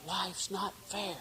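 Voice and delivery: building up righteous anger, a touch of a whine; aggrieved author rehearsing a complaint; indignant complaint. Retold or imitated. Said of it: "And I was saying".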